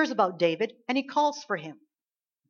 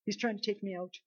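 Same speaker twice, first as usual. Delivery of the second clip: soft, feeble mock fear; hammed-up gasp, then a small fearful voice; mock cowering; 5 dB quieter than usual. Preacher imitating believers scared of the devil, mock cowering. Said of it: "cowering in fear and like".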